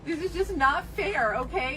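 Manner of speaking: about to cry over the unfairness; tearful. Acted. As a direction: voice breaking, near tears. Upset passenger near tears.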